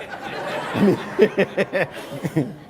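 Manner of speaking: a short airy laugh at his own joke; breathy laugh. Real, not acted. Speaker laughing at his own joke, a breathy chuckle.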